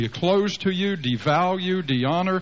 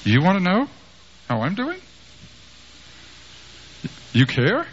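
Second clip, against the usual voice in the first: bitter father; 5 semitones higher than usual. Retold or imitated. Father's bitter reply to son.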